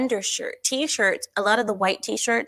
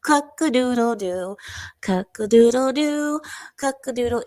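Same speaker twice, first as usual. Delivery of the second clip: mock rooster crow; 3 semitones higher than usual. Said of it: "What noise does the rooster make?".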